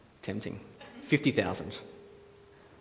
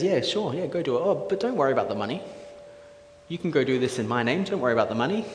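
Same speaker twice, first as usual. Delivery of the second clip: higher, breezy acted king; quick, offhand agreement, waving off the money; casual consent; 3 semitones higher, 4 dB louder than usual. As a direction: lightly imitate an easygoing ruler.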